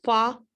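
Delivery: फा slowly, each sound apart; sound split. Shown as a demonstration. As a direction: break फा into its sounds. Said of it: "तो उसमें हम एफ".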